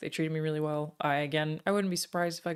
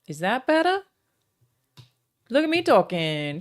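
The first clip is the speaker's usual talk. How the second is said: speaking up; 5 semitones higher, 7 dB louder than usual. Real, not acted. Streamer to chat after realising she's too quiet, speaking up. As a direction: project so chat can hear. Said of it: "Oh, I'm very quiet".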